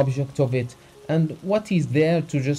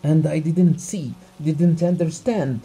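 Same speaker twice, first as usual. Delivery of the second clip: through clenched teeth; 6 semitones higher, 5 dB louder than usual. Acted. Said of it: "he said through his clenched teeth".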